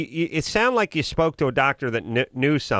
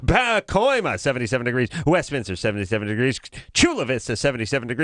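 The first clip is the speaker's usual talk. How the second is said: hammed-up weatherman listing towns; radio announcer; faster than usual. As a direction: overplay a cheesy radio weatherman. Mock radio weather read.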